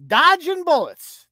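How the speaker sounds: lightly voiced mock panic; mock frantic Monica. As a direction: narrate it like a breathless run. Mock dodging bullets scene.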